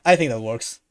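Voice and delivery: ordinary delivery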